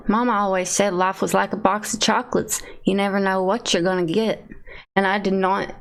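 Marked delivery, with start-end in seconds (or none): 0.1-4.4 lightly voiced Southern movie hero; a half-successful Southern character impression; Forrest Gump. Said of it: "One of them has to be Forrest Gump".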